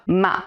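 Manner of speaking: Ma falling sharply like a firm no; fourth tone ma. Shown as a demonstration. Teacher demonstrates the sharp falling fourth tone. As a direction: drop Ma hard and fast. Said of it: "falls sharply, like a firm no".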